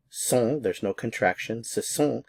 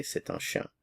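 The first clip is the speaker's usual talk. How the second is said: soft whispered answer; 9 dB quieter than usual. Shown as a demonstration. Teacher models answer softly.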